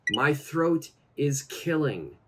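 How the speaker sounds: slow and deliberate; slow model phrase. Shown as a demonstration. Teacher saying the phrase slowly for learners. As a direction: say it slowly so students follow. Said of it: "we could say".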